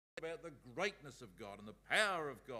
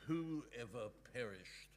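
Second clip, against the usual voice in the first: put-on English judge accent. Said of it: "very much an English judge".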